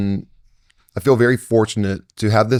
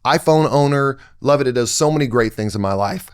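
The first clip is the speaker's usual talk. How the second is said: higher-pitched, emphatic sermon delivery; impassioned preaching; 5 semitones higher than usual. Real, not acted. Speaker urging hosts to see everybody's pain, fervent preaching. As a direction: press the point home like a preacher. Drives his message home, preaching.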